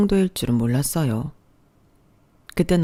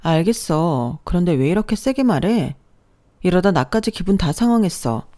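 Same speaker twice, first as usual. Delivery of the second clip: held-back anger. Acted. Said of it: "분노를 겨우 눌러 참고 경고하듯".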